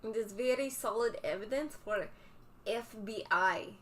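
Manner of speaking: mock Russian accent, dropped articles; hammed-up Russian accent for the stream. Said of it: "talking in a Russian accent".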